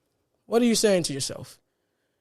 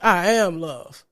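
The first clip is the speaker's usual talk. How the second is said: energetic affirmation; much slower than usual. Shown as a demonstration. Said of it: "You see the energetic shift?".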